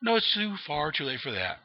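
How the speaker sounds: the Joker politely turning him down; a hint of a mocking Joker. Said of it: "he's like".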